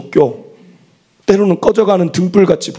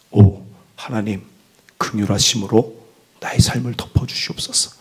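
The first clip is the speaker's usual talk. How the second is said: prayer; 6 semitones lower than usual. Acted. Leading a prayer.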